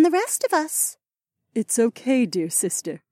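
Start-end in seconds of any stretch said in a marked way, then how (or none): 1.5-3.0 reassuring. Acted. Wife comforts her apologetic sister, gentle and reassuring. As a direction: soothe your dear sister.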